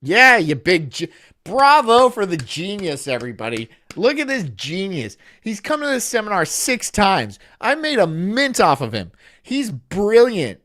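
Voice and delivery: fake-cheer the sucker in front of everyone; mocking guru applauds his best customer; sarcastic praise. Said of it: "I'd be like".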